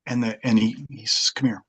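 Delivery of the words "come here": retold whisper. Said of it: "Pulls me aside".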